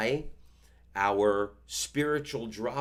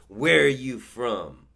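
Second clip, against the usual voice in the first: put-on old man's question; 6 dB louder, slower than usual. Old man questions him.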